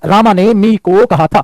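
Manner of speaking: slow, drawn-out director's narration; film director narrating. Acted. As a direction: set up the scene word by word, very slowly. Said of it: "scene क्या है?". (फ़िल्म director की तरह धीरे-धीरे)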